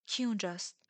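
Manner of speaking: a touch of alarm; frightened. A narrator's reading. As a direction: call out as if mildly startled. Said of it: "هراسان گفتم".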